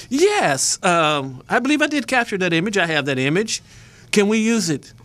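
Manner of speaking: bright, quick eager caller; eager phone voice. Retold or imitated. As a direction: pitch it up, eager to sell. Retelling call to the press agency.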